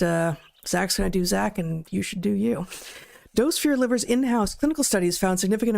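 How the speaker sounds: steady sponsor read to listeners. Acted. Host reads a liver supplement ad to viewers, upbeat ad voice. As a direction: pitch the product like a host read.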